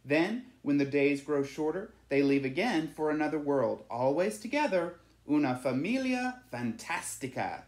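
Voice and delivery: a man in the churchyard marvelling at the swallows; villager telling the legend. A narrator's reading. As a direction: tell it like a treasured local tale. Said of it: "said one man".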